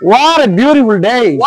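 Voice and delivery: "What" and "day" each arched up, then down; slow swooping tune falling on "day"; rise-fall intonation. Shown as a demonstration. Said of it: "examples of rising intonation". (উঠানামা সুরে বলা)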